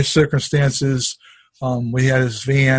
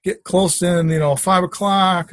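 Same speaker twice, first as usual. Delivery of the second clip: higher-pitched, exasperated complaint; frustrated; 5 semitones higher, slower than usual. Retold or imitated. Man losing his Sunday afternoon to lost nuts, frustrated. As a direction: replay mounting frustration with a raised pitch. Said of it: "I'm getting frustrated".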